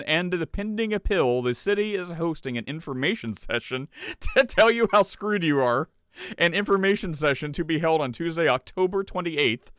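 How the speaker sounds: high, loud proclamation voice; town crier. Pretend. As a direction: announce it like a town crier with a powdered wig. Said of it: "like a town crier".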